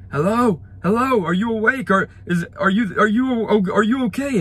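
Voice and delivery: high, loud imitated yelling of a rescuer; retold screaming. Stranger calling into a wrecked car, imitated high loud yell. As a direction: shout it like a frantic stranger in the dark. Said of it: "And he was screaming".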